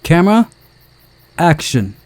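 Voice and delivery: high, loud call of camera; calling action. Acted. Director calls camera action to the crew, high and loud. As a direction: announce the take start.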